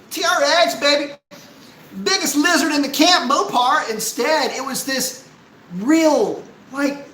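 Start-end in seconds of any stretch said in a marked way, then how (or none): 0.1-3.9 high, excited promo shout; hype shout. Acted. Streamer acts out the ad he wanted, hype shout. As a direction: yell it like a hyped-up advert.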